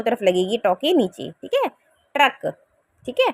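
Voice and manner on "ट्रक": ट्रक, with the ट्र cluster said tight; demo truck. Shown as a demonstration. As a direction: show ट्रक, for the children. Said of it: "कैसे बोलते हैं इसको?". (बच्चों को ट्रक का सही उच्चारण)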